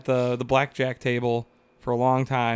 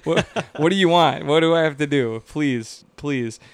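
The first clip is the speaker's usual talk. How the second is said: hammed-up begging, louder at first then sinking; mock pleading; 4 dB louder than usual. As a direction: plead like a desperate boyfriend, half-joking. Acted pleading with his girlfriend.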